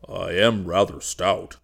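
slow, sheepish confession; sheepish admission. Acted. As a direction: admit it slowly, a little embarrassed. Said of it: "he admitted".

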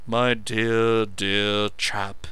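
mocking imitation of an effusive friend; vicious mimicry. A narrator's reading. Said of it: "unable to keep himself from vicious mimicry".

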